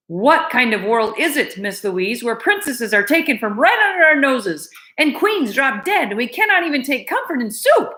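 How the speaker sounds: high plaintive lament; lamenting cook. Acted. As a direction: plead in sorrow.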